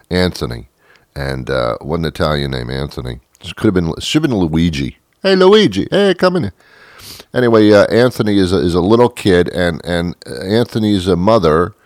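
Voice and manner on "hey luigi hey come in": high-pitched mock calling out; 부르는 소리 흉내. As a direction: call a kid over, pitched way up. Acting someone calling out to a kid.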